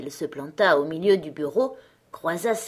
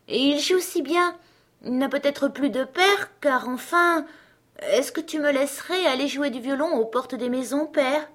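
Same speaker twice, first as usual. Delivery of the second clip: put-on much higher child's voice pleading; little girl voice; 5 semitones higher than usual. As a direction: voice a sweet ten-year-old begging.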